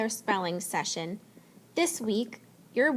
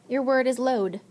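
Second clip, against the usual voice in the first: dictation voice; 2 semitones higher than usual. Shown as a demonstration. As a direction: clear spelling-test announcement. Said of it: "I'm gonna say the word".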